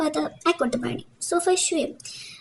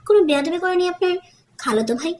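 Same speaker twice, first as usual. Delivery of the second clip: "খালাতো ভাই" pointedly stressed at the end; stress on the last two words. A narrator's reading. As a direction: punch "খালাতো ভাই" with extra weight. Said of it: "শেষ দুটো শব্দে আলাদা একটা জোর দিল".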